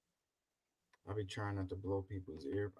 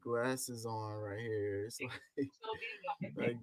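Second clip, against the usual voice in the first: muffled; slower than usual. Real, not acted. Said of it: "you sound extremely muffled".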